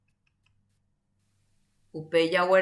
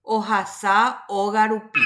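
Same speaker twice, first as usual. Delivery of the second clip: slow dictation. Shown as a demonstration. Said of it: "Kuñataĩ, porã, ohasa".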